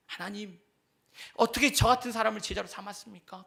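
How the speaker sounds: a touch of awe; grateful prayer. Shown as a demonstration. Believer thanking God in wonder. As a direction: marvel that you were chosen. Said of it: "우리는 감사하셔야 돼요".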